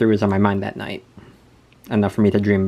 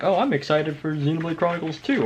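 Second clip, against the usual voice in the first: excited; 7 semitones higher than usual. Retold or imitated. Reading excited dream journal entries.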